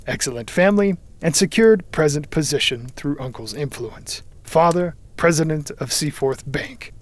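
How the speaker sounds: itemised record, headings lifted; reading aloud. A narrator's reading. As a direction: read out a dossier entry by entry, emphatically. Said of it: "he read aloud".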